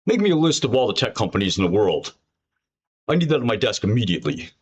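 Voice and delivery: half-hearted impression of a demanding boss; badly faked boss giving brisk orders; Bill Ackman. Boss demanding a company list on his desk, badly impersonated. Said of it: "that's the worst Bill Ackman impression ever done".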